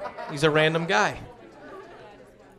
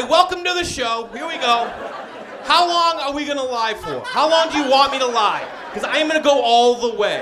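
cocky challenge; 4 semitones higher than usual. Retold or imitated. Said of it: "As if to say".

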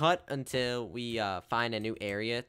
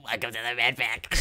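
youtuber intro; 3 dB louder than usual. Shown as a demonstration. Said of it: "Let me try it one more time".

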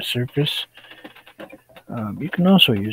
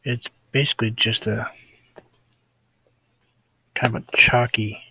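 wheezy voice. Real, not acted. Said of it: "sorry, I'm wheezing a little".

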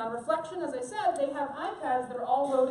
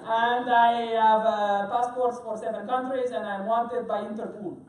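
thick French accent, played loud for laughs; Bruno; 3 semitones lower, 5 dB louder than usual. Chef introducing himself to a cruise audience, French accent impression. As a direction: put on a hammed-up French accent, projecting strongly. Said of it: "I'm gonna do my Bruno impression".

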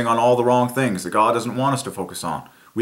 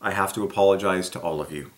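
a hint of a broken-down leader apologizing on TV; quietly choked public apology; tearful confession; 6 semitones lower, 5 dB quieter than usual. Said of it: "broke down in tears and said".

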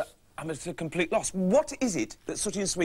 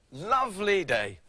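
slow, drawn-out contentment; savouring. Acted. Man enjoying a peaceful day, slow savouring. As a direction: stretch LOVELY out slowly, relishing it.

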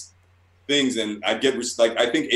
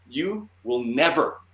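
retold angry ban; 2 semitones higher, 4 dB louder than usual. Artist imitating the editor banning him, mock angry. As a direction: pronounce a mock-furious lifetime ban. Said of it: "she fucking lost it".

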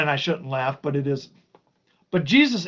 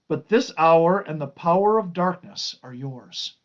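deliberate, emphatic Bible reading; scripture reading; 4 semitones higher, 3 dB louder than usual. Acted. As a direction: read out the reproach with measured weight. Reads scripture aloud to listeners.

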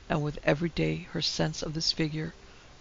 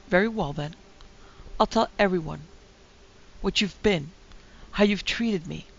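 louder, raising her voice to threaten him; louder angry threat in a row; angry outburst; 3 semitones higher, 4 dB louder than usual. Acted. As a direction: lash out at the husband who wants to leave. Wife threatens in a quarrel.

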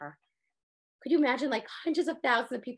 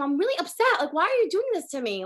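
upset; 4 semitones higher than usual. Retold or imitated. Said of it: "talk to Hashem".

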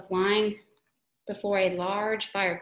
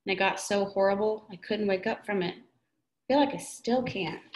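moaned. Acted. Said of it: "Matt moaned".

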